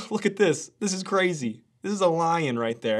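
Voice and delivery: lightly voiced wide-eyed tourist; mock amazement. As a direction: play the awed zoo visitor, mildly hammed. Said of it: "look at a lion and just go".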